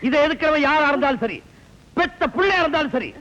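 defiant warning. Acted. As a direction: lay down the law, pitch climbing. Elder defies anyone opposing the wedding.

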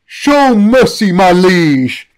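pleading priest. Acted. Priest begs the box.

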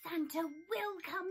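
cheering. Acted. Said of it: "he cheered".

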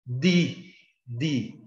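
"di" with a plain D, as in northeastern Brazil; tongue-tip D in "di", no "dji" sound; English letter D as a hard "di". Shown as a demonstration. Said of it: "usar aquele sotaque nordestino".

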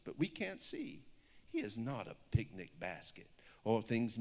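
lilting rhyming picture-book read; story reading. Acted. Author reads her picture book aloud to an audience, storybook lilt. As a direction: read the rhyme with a steady storybook bounce.

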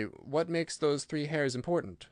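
slow, wondering question; puzzled. Acted. Scarecrow asking Ojo about the three hairs, puzzled. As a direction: puzzle it out slowly. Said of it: "said he in a puzzled way".

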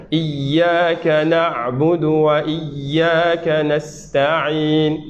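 Iyyaka na'budu wa iyyaka nasta'in drawn out; slow tajwid chant; slow recitation. Shown as a demonstration. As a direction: model recitation. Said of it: "ayn avec ayn".

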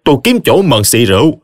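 lightly voiced resolved husband. Triệu planning a showdown after drinks, mildly determined. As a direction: announce a plan to fight back.

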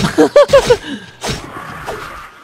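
high screeching alien death cry; Hydralisk death screech. Retold or imitated. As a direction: screech like a dying Hydralisk from StarCraft. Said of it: "เวลาไฮด้าตายเสียงอย่างนี้เลยครับ". (เลียนเสียงไฮดราลิสก์ตายแบบแหลมสูง)

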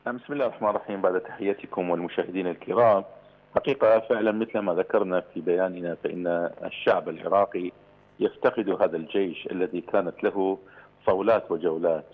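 tinny telephone line sound; phone voice. Real, not acted. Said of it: "ينضم إلينا عبر الهاتف".

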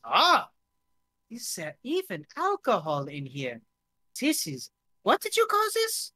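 put-on puzzled drinker with a German-French accent; hammed-up German-French accent, climbing high in bafflement. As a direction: wonder aloud in a lilting Franco-German accent. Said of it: "he's switching between German and French".

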